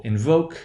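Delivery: "invoke" as in-VOKE, long stressed "oh". Shown as a demonstration. Teacher giving another example, long value. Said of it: "That long value will become short".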